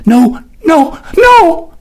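rising into a sobbing wail; anguished cry. A narrator's reading. Sister wailing as her brother is lost, sobbing. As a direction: break into a cry on the last no. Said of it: "she cried".

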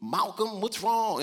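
mildly acted worried parent asking the child. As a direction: ask what's wrong, lifted and caring. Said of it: "You're like".

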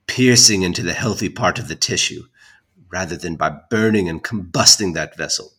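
indignant formal reading; dramatic letter reading. Acted. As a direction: read an angry old letter aloud. Reads old letter aloud.

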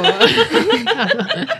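high, drawn-out pirate lookout call. Pretend. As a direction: sing out like a hammy pirate. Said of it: "I said I would do pirate".

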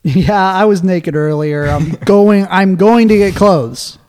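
laughing, loud and slow; laughing excuse. Pretend.

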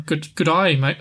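trying out an Australian accent; tentative attempt at an Australian accent. Shown as a demonstration. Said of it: "Oh, it does work".

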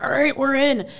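put-on excited kids. Kids tucked in tight.

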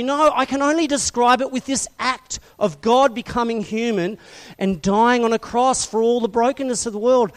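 ordinary talk

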